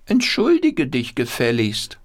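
very high, scolding puppet squeal; indignant puppet voice. Acted. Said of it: "Wolfram mit der rechten Hand".

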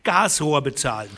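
verbitterter, zorniger Farmer; bitter angry rancher. Acted. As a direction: sneer at the law, then goad them.

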